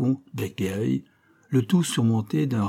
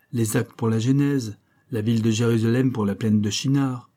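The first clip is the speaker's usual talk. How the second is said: sarcastic rebuke; 2 semitones higher than usual. Acted.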